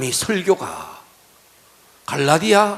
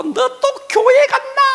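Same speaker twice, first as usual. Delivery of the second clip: high, shrill-pitched mock scolding aunt with a laugh; a laughing impression of a nagging aunt; 6 dB louder than usual. Aunt scolding niece, voiced.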